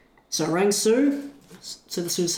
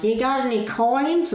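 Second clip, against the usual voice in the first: slow, high, louder mock yokel asking for change; 8 semitones higher, 4 dB louder, slower than usual. Caught on a bus, imitating a yokel begging for coins, mock voice. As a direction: ham up a drawling local cadging coins. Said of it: "yokel being like".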